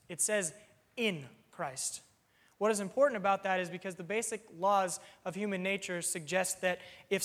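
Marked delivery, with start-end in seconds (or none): 1.0-2.0 "in" firmly stressed, then Christ. Shown as a demonstration. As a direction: land the correction on "in". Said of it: "The reason I emphasize it".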